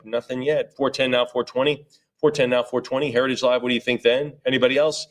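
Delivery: brisk auctioneer chant of numbers; auction bid calling. Acted. Auctioneer calling bids to the room, rhythmic chant. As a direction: keep the bids rolling.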